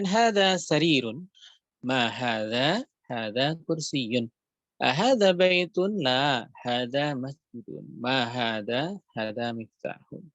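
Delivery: drill reading. Shown as a demonstration. Teacher modelling the Arabic question and answer drill, slow. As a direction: question and answer read slowly, question rising.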